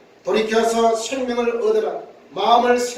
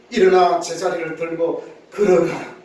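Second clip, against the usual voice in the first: 낮고 단호한 명령조로; 권위 있게 한 마디씩 명하듯; Jesus commanding; 4 semitones lower than usual. Acted. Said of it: "예수님께서 명령하십니다". (예수님이 병자에게 명령하는 단호한 목소리)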